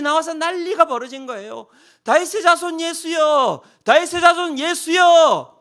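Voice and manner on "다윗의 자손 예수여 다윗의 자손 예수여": slow, loud, high hailing cry; crowd acclaim. Acted. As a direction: call out like a cheering crowd. Crowd hailing Jesus at entry.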